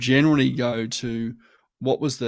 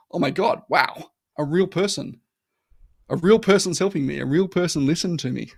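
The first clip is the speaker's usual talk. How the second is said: amazed, louder and higher mock delight; delighted surprise; 6 semitones higher, 5 dB louder than usual. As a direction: gush as if rescued by a real person. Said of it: "And you go".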